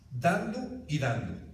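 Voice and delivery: put-on slow, deliberate recital of the childhood phrase; drawn-out quote of a kids' rhyme; slow quoted saying. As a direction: lay the saying out slowly. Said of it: "Yo la decía cuando estaba chiquito".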